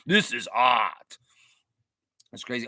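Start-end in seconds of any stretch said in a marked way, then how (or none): 0.1-1.2 slow snooty art-snob voice breaking into a laugh; pompous artist voice dissolving into laughter; arrogant artist. Retold or imitated. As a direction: repeat the pompous artist, cracking up. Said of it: "He says".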